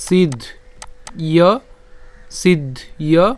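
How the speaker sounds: "সিদ্ধ", a pause, then "ইয়"; split pronunciation. Shown as a demonstration. Teacher repeats for the next word, split "সিদ্ধ ইয়". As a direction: break "সিদ্ধ ইয়" clearly into two parts. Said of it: "একই রকমভাবে পরেরটাও কি হবে?".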